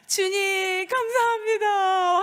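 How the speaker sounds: high, drawn-out mock gush of thanks. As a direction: act out overflowing gratitude in prayer. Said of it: "우리도 막 은혜 받을 때는". (높고 길게 늘인 감격의 감사 흉내)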